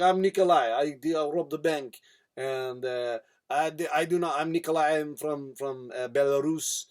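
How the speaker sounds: put-on halting, wandering Slavic accent; badly faked Russian, searching for words; muddled Russian accent. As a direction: attempt a Russian accent and lose it. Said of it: "accent's all muddled".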